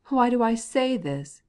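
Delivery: loud, high, slow indignant question; angry retort. A narrator's reading. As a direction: throw the question back angrily. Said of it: "continued he as angrily as ever".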